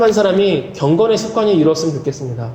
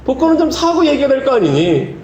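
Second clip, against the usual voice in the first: higher, stretched-out comic scolding; exasperated voice of God; 6 semitones higher than usual. Retold or imitated. God scolding the man who bought no ticket, mock exasperation. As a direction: chide the petitioner in mock exasperation. Repeats God's exasperated punchline.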